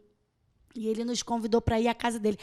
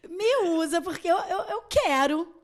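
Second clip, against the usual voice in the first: laughing prayer; 4 semitones higher, 4 dB louder than usual. Retold or imitated. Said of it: "E eu só falava assim".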